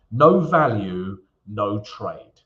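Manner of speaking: punchy catchphrase like a quiz host; game show host. Acted. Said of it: "I sound like a game show host".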